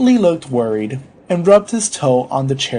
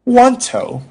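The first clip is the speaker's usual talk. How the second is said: high, louder patient voice; patient insisting, pitched up; meek correction; 10 semitones higher, 5 dB louder than usual. Acted. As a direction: correct him in a raised pitch. Patient meekly corrects the doctor.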